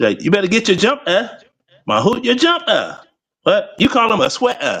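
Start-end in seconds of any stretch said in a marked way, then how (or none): 0.2-3.0 put-on British accent, halting, stumbling and restarting. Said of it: "they call 'em jumpers".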